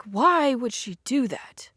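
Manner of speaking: slow whisper to himself; whispered puzzling. Retold or imitated. Nathaniel puzzling over Kitty to himself, whispered. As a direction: mutter it under the breath, baffled. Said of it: "cognitive dissonance where he's like".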